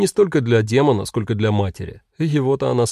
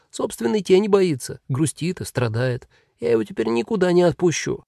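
lightly high, apologetic demon; friendly demon; 5 semitones higher than usual. Acted. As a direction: explain kindly to the crying girl. Demon answers from above.

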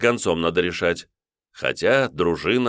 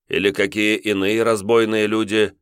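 чуть выше, вкрадчивый вопрос; подвести к ответу; воевода с подвохом; 4 semitones higher, 3 dB louder than usual. Acted. Воевода подсказывает. (воевода вкрадчиво подсказывает)

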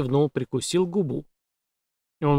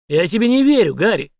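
громко, выше; отвергает с угрозой; злое недоверие; 6 semitones higher, 6 dB louder than usual. A narrator's reading. Злой Шекет. (злое «не верю»)

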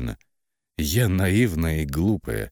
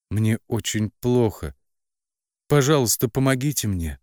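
a higher, louder plea for help; drugged heroine begs her family, pleading higher; 6 semitones higher, 3 dB louder than usual. A narrator's reading. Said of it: "еле слышно пробормотала".

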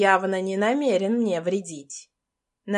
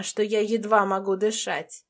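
ordinary delivery, nothing marked

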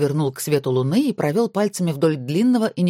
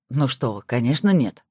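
a lower, calm reassurance; reassuring; 4 semitones lower than usual. Acted. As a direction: settle her worry gently. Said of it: "успокоил её Павел". (успокаивающе, тихо)

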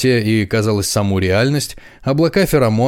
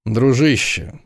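loose drawl; 4 semitones higher than usual. Acted. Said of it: "развязно протянул Томас".

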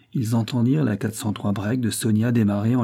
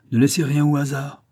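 raised, higher firm instruction; commanding; 5 semitones higher, 4 dB louder than usual. A narrator's reading. Volpi instructs his officers searching, commanding. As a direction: order them to be thorough. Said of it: "commanda Volpi aux autres".

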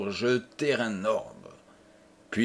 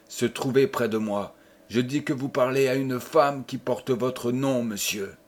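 de la dignité offensée à la majesté royale; dignité croissante. Acted. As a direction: monter doucement jusqu'à une majesté de reine. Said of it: "depuis la simple dignité ... majesté d'une reine". (la femme offensée tient tête au connétable, de plus en plus majestueuse)

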